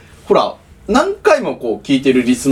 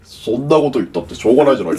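lightly put-on nasal celebrity impression; quick, nasal mock whine; Enari impression; 3 semitones lower, faster than usual. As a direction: do a nasal, resigned catchphrase. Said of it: "そんな鼻声のえなりさん聞いたことない".

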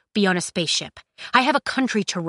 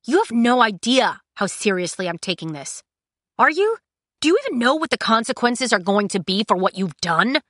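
heated argument; 4 semitones higher, 4 dB louder than usual. Acted. Heated quarrel between Kai and Cinder.

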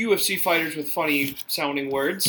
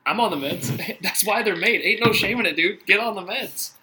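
imitating Pete Davidson; 4 semitones higher, 4 dB louder than usual. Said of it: "Pete Davidson's just like".

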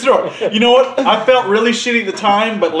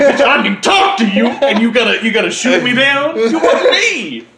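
mock indignant rant; 4 semitones higher, 4 dB louder than usual.

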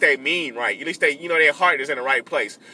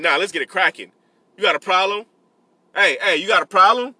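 mock barking; 3 semitones higher, 4 dB louder than usual. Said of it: "I'm barking".

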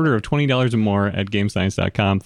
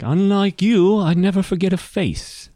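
high-pitched villain's taunt; taunting assassin; 9 semitones higher than usual. Acted. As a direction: needle them in the assassin's high voice. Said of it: "It's like".

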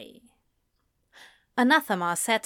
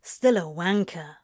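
low-key grumble; grumbling; 3 semitones lower than usual. A narrator's reading. Crowley insulting Alistair's editor, grumbling. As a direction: grumble the insult under the argument. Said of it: "Crowley grumbled".

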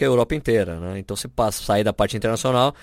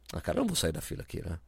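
hushed reply; 7 semitones lower, 11 dB quieter, faster than usual. Retold or imitated. Fellow traveller answers in the queue.

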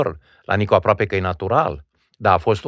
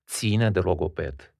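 slow repeat; 4 semitones lower, 6 dB quieter, much slower than usual. Shown as a demonstration. Repeats the phrase for effect.

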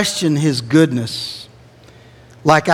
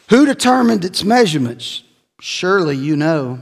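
higher, mocking challenge from God; sarcastic God; 4 semitones higher, 4 dB louder than usual. God taunting Job, sarcastic and higher. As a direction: taunt him like a God who knows better. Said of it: "You hear the sarcasm in God?".

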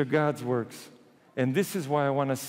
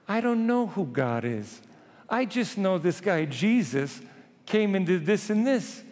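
higher-pitched, mildly exasperated protest; 6 semitones higher than usual. Acted. Healed man protesting to the Pharisees, exasperated. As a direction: insist with a touch of exasperation.

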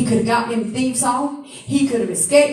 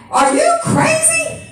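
indignant outcry; 7 semitones higher than usual. Retold or imitated. Preacher scolding the crowd that healed man turned on, shouting high. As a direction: cry out at them in disbelief.

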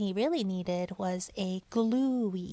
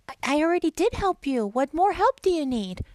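put-on Boyfish voice; 6 semitones higher, 4 dB louder than usual. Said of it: "I'll do the Boyfish".

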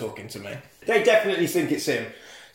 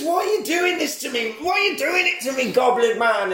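mock sobbing; 10 semitones higher than usual. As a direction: plead through fake tears. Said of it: "He says".

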